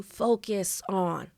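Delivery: FOCUS ON drawn out and set apart; emphasis on FOCUS ON. Shown as a demonstration. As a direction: stretch FOCUS ON so it stands out. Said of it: "Notice the difference between focus on".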